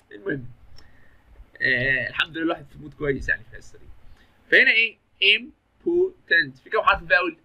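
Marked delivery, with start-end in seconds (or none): 5.4-6.6 امبورتنت said slowly in three separate beats; higher, measured sounding-out of امبورتنت; syllable by syllable. Shown as a demonstration. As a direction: break امبورتنت up for counting its vowels. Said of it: "يبقى بتتنطق على كام مره".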